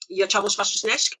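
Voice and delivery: mock Russian at everyday volume; bad Russian. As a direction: recite made-up, badly faked Russian. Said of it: "Said some very bad Russian".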